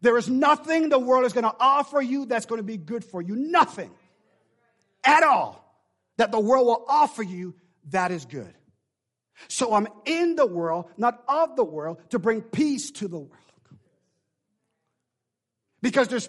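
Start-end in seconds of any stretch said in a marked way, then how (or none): 0.0-11.6 louder and higher, driving the line home; preaching louder. Real, not acted. Preacher turns to the other side of the room and repeats louder. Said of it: "I said, oh, to, to this side".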